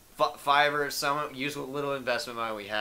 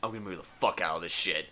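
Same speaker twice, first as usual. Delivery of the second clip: frustrated; 7 semitones lower, 3 dB quieter, faster than usual. Real, not acted. Gaming frustration.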